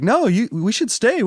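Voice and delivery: mock fake insistence. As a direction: drag it out in a high fake whine. Mocking guy dragging her out.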